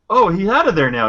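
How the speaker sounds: hammed-up bystander, high-pitched; put-on wonder at a lame rescue; mock amazement. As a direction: exclaim it high like a cheesy extra. Mocking bystanders in cheesy action scene.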